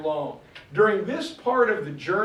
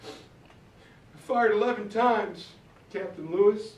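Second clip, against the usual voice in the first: mock tearful; 3 semitones higher than usual. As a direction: play a weepy young hunter confessing to his captain. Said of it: "sitting by the riverbank crying".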